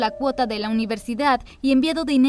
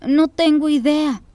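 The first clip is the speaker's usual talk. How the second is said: innocently; 3 semitones higher, slower than usual. Acted. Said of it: "respondí inocentemente".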